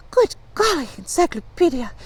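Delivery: put-on high-starting girlish amazement; amazed gasp. A narrator's reading. Fanchon marvels at Encyclopedia's knowledge, gasping. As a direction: exclaim in wonder, dropping on the name. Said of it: "Fanchon gasped".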